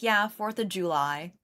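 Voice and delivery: JULY with a full "joo" first syllable; imitated fancy July. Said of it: "I always think she sounds fancy".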